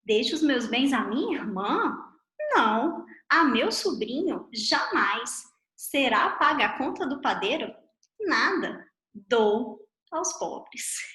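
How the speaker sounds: "Será paga a conta do padeiro?" asked as a question, then a break after "Nada,"; rising on "padeiro?", pause after "Nada,", then a slow "dou aos pobres"; the poor man's punctuation. Shown as a demonstration. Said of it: "fez essa interpretação".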